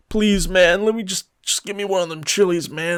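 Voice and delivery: mock pleading for chili; lightly voiced hungry beggar; begging. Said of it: "he started begging".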